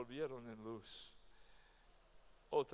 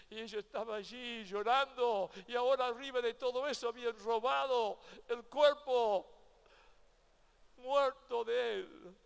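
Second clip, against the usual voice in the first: higher and louder, a grieving cry; anguished outcry; 8 semitones higher, 10 dB louder than usual. Acted. Preacher cries out Mary's anguish at the empty tomb, loud and high. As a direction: let the grief burst into the sermon. Preacher's voice rises telling of her grief.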